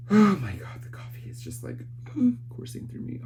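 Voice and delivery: jittery. Real, not acted. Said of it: "I feel so jittery".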